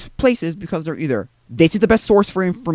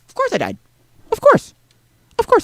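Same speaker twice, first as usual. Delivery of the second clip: much higher squeaky exasperated of course; mock-bitter resignation; sarcastic of course. Real, not acted. Sarcastic after dying in game.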